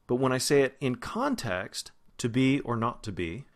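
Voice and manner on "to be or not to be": "to" weakened to "tuh", weight on "be"; reduced to. Shown as a demonstration. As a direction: let each "to" shrink to a schwa. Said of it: "that was ta".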